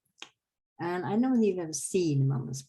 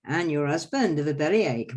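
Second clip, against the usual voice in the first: a touch louder comic punchline; quack doctor punchline; 5 dB louder than usual. Acted. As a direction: land the joke to the crowd. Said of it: "Everybody laughs".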